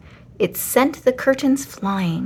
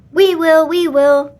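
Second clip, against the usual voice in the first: higher, louder eager kitten cry; 7 semitones higher, 7 dB louder than usual. A narrator's reading. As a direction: kittens volunteering all at once, louder. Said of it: "the kittens said".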